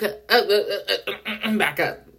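stammered string of uhs; retold balking. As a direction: balk in repeated little stutters before the words. Acts out balking at being followed.

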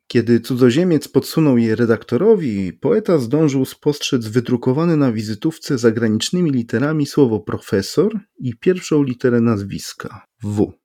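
ordinary delivery, nothing marked

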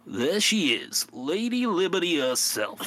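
loud, proud New York tour-guide shout; hammed-up New York accent, belted. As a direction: boom it out like a New Yorker showing off. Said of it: "the New York voice started".

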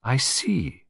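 mildly pensive detective; thoughtful. Acted. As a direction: take it in with a touch of reflection. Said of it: "said Poirot thoughtfully".

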